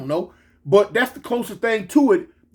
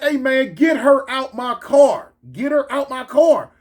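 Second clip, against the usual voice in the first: insistent mock-angry demand, slightly raised pitch; acted holler, more insistence than volume; retold holler; 3 semitones higher than usual. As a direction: order everyone about, stretching the words. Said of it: "I holler".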